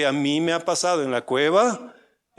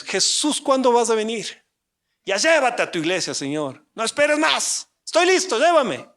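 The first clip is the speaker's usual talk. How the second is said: pleading, rising higher toward the end; impatient believer's plea; 3 semitones higher than usual. Retold or imitated. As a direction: beg Jesus to come now, half joking. Creyente impaciente rogando a Jesús. (ruego impaciente y exagerado)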